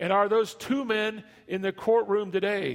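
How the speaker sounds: commanding booming voice. Retelling the prosecutor's question in the courtroom, booming prosecutor's voice. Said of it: "in a booming prosecutor's voice".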